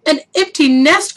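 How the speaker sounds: high excited exclaim; excited cry. A narrator's reading. The chicken cries out at the empty nest, high and excited. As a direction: squeal it with delight. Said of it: "cried the chicken".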